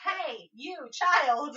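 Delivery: slow, drawn-out high shout; yelling down. Acted. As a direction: holler to a child far below. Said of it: "yelling down into the street".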